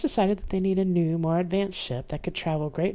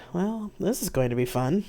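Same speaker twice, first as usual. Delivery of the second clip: sarcastic; 2 semitones higher than usual. Acted. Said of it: "I said sarcastically".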